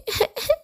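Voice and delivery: high, soft acted sob; short high crying sounds; acted whimper. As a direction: whimper like a frightened cub. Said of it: "بتعيط ليه".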